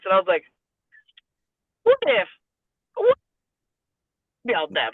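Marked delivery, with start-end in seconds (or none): 1.8-4.9 excited idea. Retold or imitated. Retold sudden idea.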